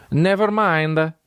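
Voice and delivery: high, slow Italian caricature; mock Italian accent. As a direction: give up slowly in an Italian accent. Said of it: "Italians go like".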